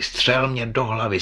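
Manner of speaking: crucified man's pitch breaking upward; rising desperate plea. A narrator's reading. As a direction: lift "střel" in a desperate cry. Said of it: "křičel ukřižovaný".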